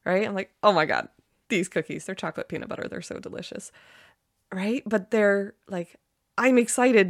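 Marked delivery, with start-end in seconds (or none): 0.6-3.7 gushing over cookies. Shown as a demonstration. Host describing her favourite cookies, building then fading delight. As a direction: rave about them, sinking into a dreamy hush. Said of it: "I make cookies that I get super excited about".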